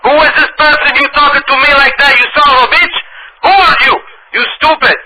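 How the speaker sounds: put-on high, loud Dominican accent shouting in broken English. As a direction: yell furiously in a Dominican accent. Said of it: "I'll be talking in broken English".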